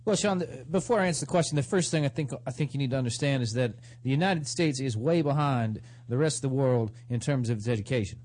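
politician impression. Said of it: "that was my impression of a politician".

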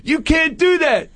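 put-on swagger it like a suburban tough kid; gangster-posing teen. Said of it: "that gangster thing".

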